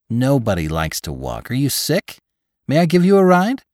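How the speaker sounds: climbing to high, loud questions; insistent driver. A narrator's reading. Driver doubting Lantry likes to walk, increasingly insistent. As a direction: build from disbelief to a high, eager offer. Driver offers ride in story.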